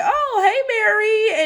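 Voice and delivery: high-pitched mock hello; put-on high voice for a friendly greeting; imitated greeting. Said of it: "the Chinese woman is like".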